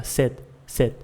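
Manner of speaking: "Sit" with the T stopped, hardly coming out; barely released T. Shown as a demonstration. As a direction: hold the tongue behind the teeth to end "Sit". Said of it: "quase não sai o T".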